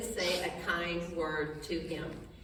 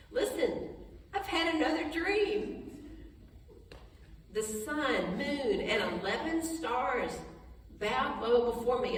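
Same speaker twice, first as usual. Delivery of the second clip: eager boasting; 3 semitones higher, slower than usual. Retold or imitated. Joseph retelling second dream.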